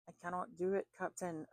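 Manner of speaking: rough attempt at a Scottish accent; Scotty. Tarot reader relaying the voice in her head, bad Scottish accent. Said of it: "like, Scotty from Star Trek going".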